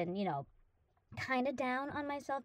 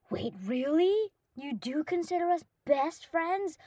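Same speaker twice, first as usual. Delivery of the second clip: surprised; 5 semitones higher, 4 dB louder, slower than usual. Real, not acted. Hears she's his best friend.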